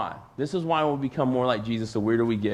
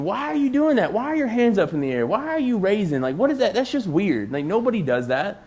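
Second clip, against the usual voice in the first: higher, incredulous questioning; mocking friend; 6 semitones higher than usual. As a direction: play the baffled friend poking fun. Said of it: "you may have friends that ask you".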